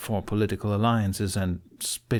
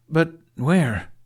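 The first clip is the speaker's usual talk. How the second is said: higher, louder asking over her; eager question; 8 semitones higher, 6 dB louder than usual. A narrator's reading. Fishlegs asking over Ruffnut, higher and louder. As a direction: cut in eagerly.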